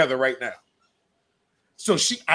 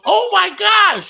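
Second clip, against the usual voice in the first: high, loud, slow gasp of disgust; mock shock; 9 dB louder, slower than usual. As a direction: drag out a shocked squeal. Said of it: "The girl goes".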